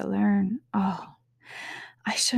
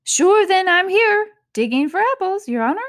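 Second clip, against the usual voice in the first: new servant voice; 11 semitones higher, 7 dB louder than usual. Acted. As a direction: humbly answer your master from below. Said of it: "a voice she had never heard before".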